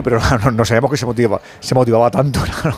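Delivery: laughing. Real, not acted. Laughing on air.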